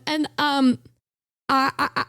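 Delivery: usual speaking voice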